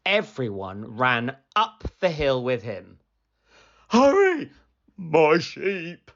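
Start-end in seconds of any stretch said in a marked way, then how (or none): 3.9-6.1 high, loud urging; high, loud urgent plea; urgent call. Acted. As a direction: hurry them along in alarm. Boy urging villagers on.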